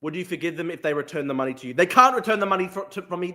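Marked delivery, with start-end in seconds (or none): none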